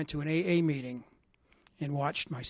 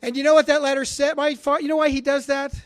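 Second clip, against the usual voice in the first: louder, higher, urging the crowd to guess; excited loud question; 10 semitones higher, 11 dB louder than usual. Real, not acted. Speaker rousing the audience about his father's letter, excited and loud. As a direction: lean in and fire the question at the room.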